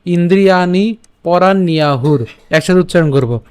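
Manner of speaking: measured, chanted reading of a Gita shloka; Sanskrit verse recitation. Shown as a demonstration. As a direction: recite each half-line with a pause, like a teacher. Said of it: "একটু খেয়াল করুন আবার".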